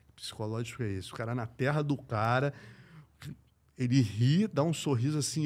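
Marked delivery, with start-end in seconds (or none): 0.1-1.1 stunned whisper. Retold or imitated. Private stunned thought, retold.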